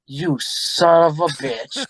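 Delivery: drawn-out disbelieving curse, very slow; slow stunned curse. Retold or imitated. The hustled SEAL realizing he lost, slow stunned curse. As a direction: let it crawl out in disbelief. Losing SEAL reacts, retold.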